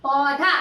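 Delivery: "पौधा" in two long, low syllables; teacher's careful model of "पौधा"; sounded-out word. Shown as a demonstration. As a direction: stretch the au in "पौधा", then dha. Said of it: "प में औ की मात्रा धा".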